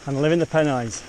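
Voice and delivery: breathless, talking while climbing; panting between phrases on an icy climb; out of breath. Real, not acted. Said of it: "if I sound out of breath".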